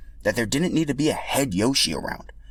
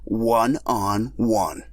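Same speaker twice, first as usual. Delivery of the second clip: cocky rival; 2 semitones higher than usual. Acted. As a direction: taunt them into a race. Boshi challenges Mario and Yoshi.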